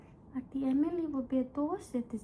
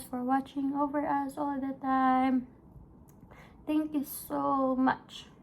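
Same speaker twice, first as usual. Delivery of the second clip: heartfelt prayer. Real, not acted. Thanking God aloud, mid vlog.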